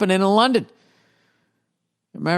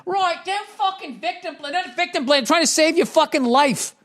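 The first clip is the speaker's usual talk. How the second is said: mocking whiny voice; 12 semitones higher than usual. Host mocks people complaining about victim blaming in a high whiny voice. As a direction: mimic the complainers in a high sneering voice. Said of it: "everybody's going like".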